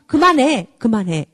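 a touch of a fed-up parent snapping; nagging stop it. Retold or imitated. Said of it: "이렇게 얘기를 해요".

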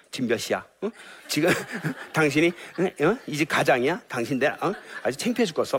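half-laughing mock nag; nagging wife. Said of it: "이게 사망의 말이에요". (늦게 온 남편을 반쯤 웃으며 나무라는 흉내)

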